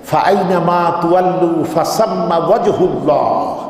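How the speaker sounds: measured Arabic verse recitation; quoted Quranic recitation in a sermon. Retold or imitated. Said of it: "তেলাওয়াত করলেন".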